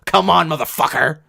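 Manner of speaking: fired-up yell. Retold or imitated. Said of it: "fire up and go".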